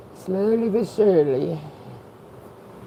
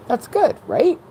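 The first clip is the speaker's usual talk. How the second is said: laughing; 10 semitones higher, slower than usual. Real, not acted. Laughing at her own breathing trouble.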